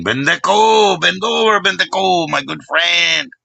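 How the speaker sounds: high, playful calling out to a friend; teasing sing-song call. Acted. Streamer calling out to a friend in chat, high playful teasing.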